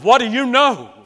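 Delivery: high, loud happy exclaim; a student hearing he scored eighty-eight, overjoyed; joyful amazement. Retold or imitated. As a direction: burst out in delighted surprise.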